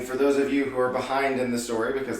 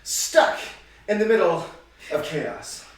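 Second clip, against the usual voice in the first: slow, punchy host narration; game show host; 2 semitones higher than usual. Acted. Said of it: "You sound like a game show host".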